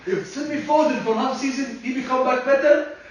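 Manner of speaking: a hint of an Arab accent. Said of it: "Why are you sounding like an Arab guy".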